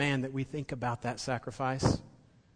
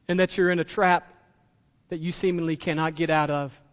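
voicing God; 2 semitones higher, 5 dB louder than usual. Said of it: "He looks at us and he says".

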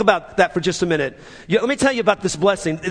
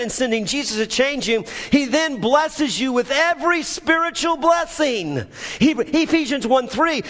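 raised, driving sermon delivery; impassioned preaching; 6 semitones higher than usual. Real, not acted. Preacher telling the congregation of every spiritual blessing, impassioned preaching. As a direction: preach it with mounting energy.

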